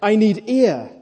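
high, loud acted cry; screeched plea. A narrator's reading. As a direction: beg desperately for breath. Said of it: "he screeched".

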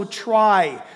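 "try" set apart and stressed; stressed, falling "try"; emphasis on try. Shown as a demonstration. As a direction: land firmly on the word "try". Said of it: "the emphasis on that word".

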